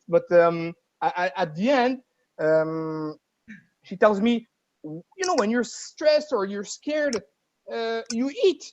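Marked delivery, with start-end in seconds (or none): 4.8-8.6 higher, slow, patient lecturing voice; mock her explaining it slowly, pitched high; imitating her lecture. Voicing her explaining emotional eating.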